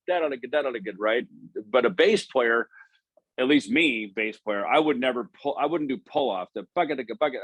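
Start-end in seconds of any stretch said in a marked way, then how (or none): 0.1-0.9 rapid run of "da" syllables; mouthed pull-off lick. Shown as a demonstration. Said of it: "would pull that off". 6.5-7.4 rhythmic imitated bass plucking; mouthed bass notes. Shown as a demonstration. Mimicking notes of pull-off lick.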